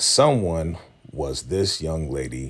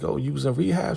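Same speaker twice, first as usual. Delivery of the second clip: higher-pitched imitation of a woman teasing; mock Peaches; 10 semitones higher, faster than usual. Recapping the show, voicing Peaches teasing Shad about rehab, higher-pitched mock voice. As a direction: tease him about rehab in a raised voice.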